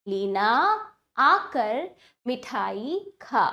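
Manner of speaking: relaxed, slow repeat of लीना आकर मिठाई खा; measured repeat reading. Shown as a demonstration. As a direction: pause between words, easing down to खा. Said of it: "अब वाक्यों का उच्चारण करते हैं".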